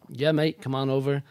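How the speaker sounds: lightly put-on English accent, matey; a hammy, poor attempt at an English accent; bad English accent. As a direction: imitate an English mate's breezy invitation. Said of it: "it was the worst English accent".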